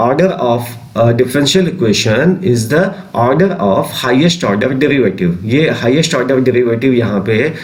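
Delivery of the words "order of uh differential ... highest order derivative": slow, spaced-out dictation of a definition. Acted. Teacher dictating a definition to class twelve students, slow and spaced. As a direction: read it slowly so students can write.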